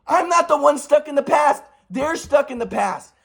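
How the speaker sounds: high, heated protest; indignant. Real, not acted. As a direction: throw the accusation back, exasperated. Indignant rebuttal of the retold scolding.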